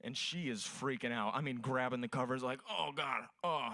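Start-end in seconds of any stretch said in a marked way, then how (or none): 2.7-3.7 feminine moan. Retold or imitated. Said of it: "still sounding more feminine".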